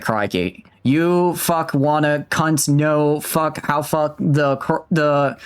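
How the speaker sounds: halting mock-Australian accent, slowed word by word. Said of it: "All right, every other word".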